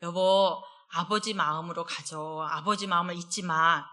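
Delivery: gentle reminder. Retold or imitated. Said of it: "저는 늘 그랬어요".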